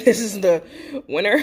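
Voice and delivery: laughing through the words; giggly, amused. Real, not acted. Laughing at spicy sauce.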